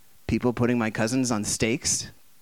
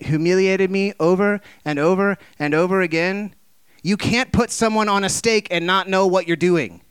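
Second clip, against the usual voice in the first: louder, higher, building outrage; rising indignation; 5 semitones higher, 4 dB louder than usual. Real, not acted. Preacher rails against those who hurt us, rising outrage. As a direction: let the anger swell through it.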